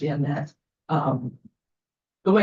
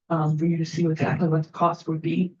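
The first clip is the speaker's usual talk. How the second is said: shivering, shaky voice. Real, not acted. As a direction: voice shaking from the cold. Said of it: "my voice is shaking 'cause I'm freezing".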